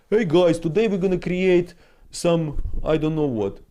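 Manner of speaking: hammed-up bright 'hey guys' opener; cheery streamer. Mocking the carefree streamer he wants to be, mock cheery host voice.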